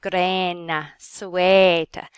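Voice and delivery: grena and sueta with a long, closed E; "grena, sueta" as Middle English, long closed vowel. Shown as a demonstration. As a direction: hold the E in "grena" and "sueta", lips toward a smile. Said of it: "long E closed".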